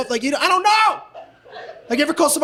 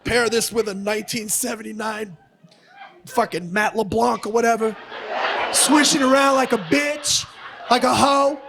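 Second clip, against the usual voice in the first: mock wine snob; 2 semitones lower, 3 dB quieter than usual. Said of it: "He's like".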